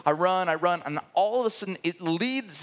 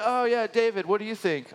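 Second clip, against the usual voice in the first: higher, breezy mock politeness; mock chirpy host; 4 semitones higher than usual. Mocking the Midwest dinner guests, higher chirpy voice. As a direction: send up the cheerful meeting leader.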